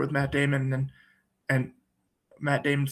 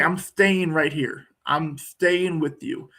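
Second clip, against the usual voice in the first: steady reassurance; slower than usual. Retold or imitated. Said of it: "Robin Williams being basically like a bulwark".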